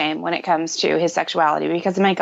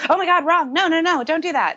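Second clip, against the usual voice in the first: alarmed reaction; 10 semitones higher than usual. Retold or imitated. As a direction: blurt it out in a shocked panic. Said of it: "your immediate reaction ... is to go".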